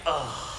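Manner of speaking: low, soft groan; mock groan of someone under stress. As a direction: let out a quiet, retold "ugh".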